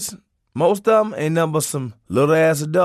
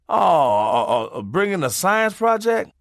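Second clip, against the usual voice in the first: mock stammer; 6 semitones higher than usual. Bully mocking smart kid.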